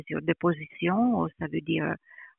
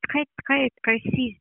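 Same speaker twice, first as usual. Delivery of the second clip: non-native French speaker; foreign accent in french. Real, not acted. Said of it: "mon français n'est pas le meilleur".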